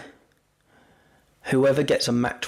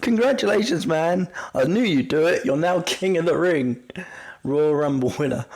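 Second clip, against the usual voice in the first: playful R-Truth impression, lightly voiced; imitating R-Truth; 4 semitones higher than usual. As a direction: gush it out like a clueless wrestler. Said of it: "he goes".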